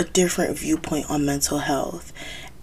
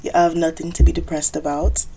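put-on Jamaican accent. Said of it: "Do not call me for my fake Jamaican accent".

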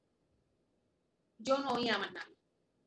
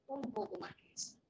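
"Un poco más que eso" repeated much softer, to sink in; 7 dB quieter than usual. Shown as a demonstration. (repetición en voz baja de "Un poco más que eso")

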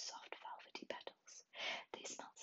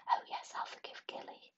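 louder, grudging whispered grunt; 10 dB louder than usual. Acted. Wizard grudgingly forgiving Gilly, whispered grunt. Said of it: "grunted the wizard".

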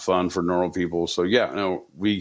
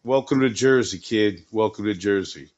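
higher-pitched Jersey tough guy, drawling forget about it; Jersey mobster; 4 semitones higher than usual. Acted. Podcast host riffing on Doug Flutie's Jersey team, as a higher, put-on Jersey mobster. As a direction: play a pushy New Jersey wiseguy, stretching the last line out slow.

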